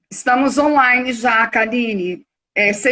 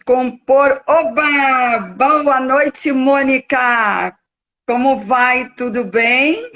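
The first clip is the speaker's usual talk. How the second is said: raised voice, calling out; to someone hard of hearing. Real, not acted. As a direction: speak up to be heard. Host calling to muted guest.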